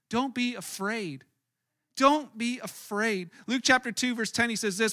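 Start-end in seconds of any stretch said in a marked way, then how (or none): 0.1-3.3 slow, softer, reassuring; slow reassurance. Real, not acted. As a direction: say it slowly to calm the room. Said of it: "I believe that when God shows up".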